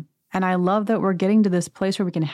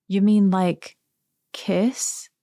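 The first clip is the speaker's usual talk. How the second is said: innocent Teddi; much slower than usual. Retold or imitated. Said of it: "Teddi looks at Brandi and says, quote".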